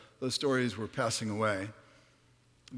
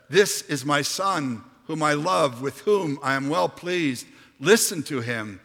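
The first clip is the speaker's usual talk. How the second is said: booming divine voice; 4 semitones higher, 7 dB louder than usual. Acted. Voice from the cloud speaking.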